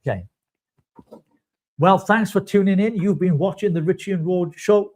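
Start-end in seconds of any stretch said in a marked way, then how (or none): 1.8-4.9 mock host outro. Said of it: "I've got it again".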